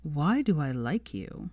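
slow, fond exasperated sigh; fondly fed up with her; loving exasperation. Acted. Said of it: "familiar fond exasperation".

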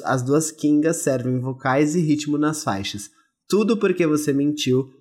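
velvety voice. Acted. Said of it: "Agora fala com a voz aveludada".

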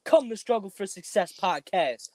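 high-pitched put-on promo pitch; Suge Knight. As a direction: call out like a record boss at an awards show. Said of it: "let me get my Suge, Suge Knight, uh, voice on".

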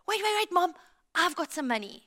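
high, eager call from the back seat; urgent little boy stopping mom; excited kid. Retold or imitated. Excited son calling from back seat.

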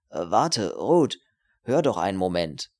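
sudden insistent appeal; urgent calling back. Acted. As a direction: call after someone walking away. Calls her back as she leaves.

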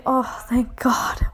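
slow relieved whisper; whispered relief. Retold or imitated. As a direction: breathe it out slowly, relieved. Relieved inner thought.

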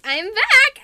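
loud, high playful announcement; excited return. Pretend. Squirrelflight announcing she is back, playful loud excitement. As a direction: call out a comeback in a mock-excited voice.

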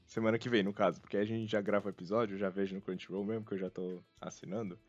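ordinary delivery

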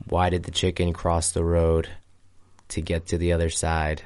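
monotone voice. Shown as a demonstration. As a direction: tell it completely deadpan, no emotion. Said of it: "very monotone voice".

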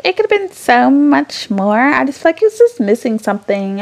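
mocking her ex. Imitating her ex's verdict on the finale, lightly mocking. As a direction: mimic a dismissive critic. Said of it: "she doesn't talk like this".

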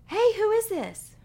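loud, high, cheery DJ greeting; radio host. Retold or imitated. Radio host answers the call.

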